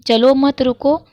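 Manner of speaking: चलो मत high and loud, then रुको; pause after मत. Shown as a demonstration. Teacher repeats the halting example for students, grouping चलो मत before रुको. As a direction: join चलो to मत, set रुको apart. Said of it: "यानी चलने के लिए मना किया गया है".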